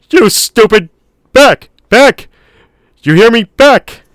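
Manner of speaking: high, loud commanding barks; lion tamer shout. A narrator's reading. Man backing away ordering the dinosaur off, lion tamer shout. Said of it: "He shouted like a lion tamer".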